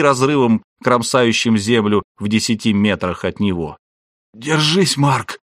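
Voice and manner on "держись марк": raised, rasping machine voice; hoarse synthesized voice. A narrator's reading. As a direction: rasp it out like a synthesizer. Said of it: "прохрипел синтезированный голос".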